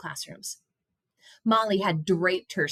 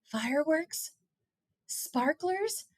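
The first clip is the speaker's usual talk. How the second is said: dismayed; 8 semitones higher, 5 dB quieter, slower than usual. A narrator's reading. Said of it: "Caleb groaned".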